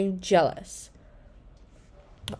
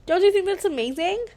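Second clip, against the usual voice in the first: excited; 9 semitones higher than usual. A narrator's reading. Claire thrilled by Cosmo.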